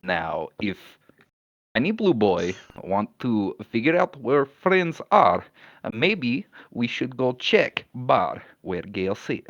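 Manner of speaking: put-on measured, accented character voice; deliberate Koski. Koski addressing blue boy about checking the bar, firm and deliberate.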